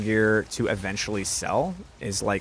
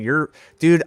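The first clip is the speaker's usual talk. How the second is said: higher and louder frustrated cry; exasperated outburst; 6 semitones higher, 6 dB louder than usual. Real, not acted. Streamer frustrated at his own mistake, exasperated outburst. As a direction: burst out in self-annoyance.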